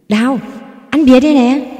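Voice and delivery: high, loud call to his wife; joyful call. A narrator's reading. Husband back home calls to his wife, joyful loud call. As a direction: shout it out, overjoyed.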